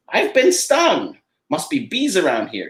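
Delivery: startled cartoon duck, lightly done; lightly voiced Donald Duck.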